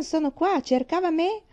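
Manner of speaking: happy calling out. A narrator's reading. Girl at the window calling to the doctor, happy. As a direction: call down to a friend. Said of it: "felice lo salutò".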